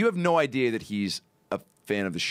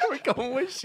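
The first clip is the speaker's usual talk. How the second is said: Super Dave voice. Retold or imitated. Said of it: "That's a good Super Dave".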